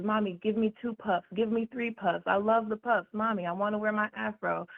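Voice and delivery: a hint of a pleading child to mommy; imitating young daughter. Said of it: "She always says".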